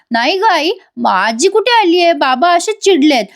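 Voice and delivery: put-on high, small childish denial; a little girl fibbing to her mother; lying child. Ovi lying to her mother in high child voice. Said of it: "ओवी खोटं बोलते".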